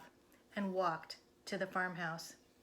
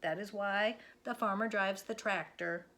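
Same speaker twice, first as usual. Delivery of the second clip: patient Minnie. Acted. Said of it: "she said".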